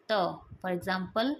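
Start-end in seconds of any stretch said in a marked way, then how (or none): 0.1-0.2 त as a short, unaspirated "tuh"; final sound. Shown as a demonstration. Teacher giving the final sound before examples, sound demonstration. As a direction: say त alone, a brief dental t. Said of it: "final sound होता है इसका".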